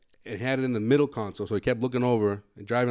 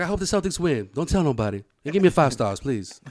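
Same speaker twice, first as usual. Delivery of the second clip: lightly imitated Houston accent; thick Houston accent. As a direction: play a chummy Houston driver with the local accent. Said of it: "everyone has the thick accent".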